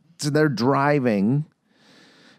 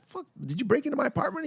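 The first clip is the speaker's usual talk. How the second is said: mock accusation; 3 dB quieter, faster than usual. Acting her confronting him next day.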